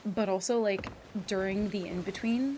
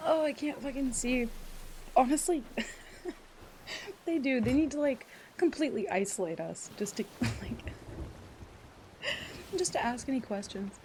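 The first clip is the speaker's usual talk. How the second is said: laughing through pain; 3 semitones higher than usual. Real, not acted. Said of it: "it hurts to laugh".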